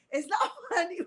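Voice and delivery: giggling while trying to stay serious; laughing. Real, not acted. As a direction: laugh breaking into the words. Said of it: "if I'm laughing".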